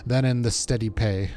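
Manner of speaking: loose Welsh-tinged dialect voice; amateur Welsh accent, confiding in an ally; attempted Welsh accent. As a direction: read it as a worried comrade with a rough Welsh accent. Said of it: "trying to do a Welsh accent".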